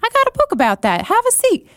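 chirpy little voice from a huge turtle; high-pitched turtle host. Pretend. Turtle welcomes a visitor, high and chirpy. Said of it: "he'd be like".

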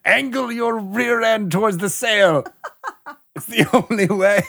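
very high, hammed-up cry breaking into laughter; mock-urgent command. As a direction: urge them on while cracking up. Acted urgent command, cracking up.

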